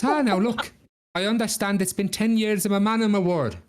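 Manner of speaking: high, lilting appeal; placating Jack. Acted. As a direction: talk the devil round. Jack stalls the devil again.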